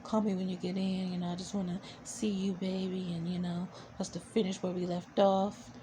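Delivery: soft, lightly voiced seductive man; sexy voice. The guy leaving a voicemail for Angel, soft seductive murmur. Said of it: "He got a real sexy voice".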